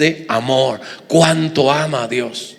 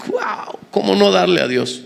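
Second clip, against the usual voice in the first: delighted wow; 4 dB quieter than usual. Retold or imitated. A lover of God marvels at giving, amazed. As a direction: gasp it out in joyful amazement. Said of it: "el que ama a Dios dice".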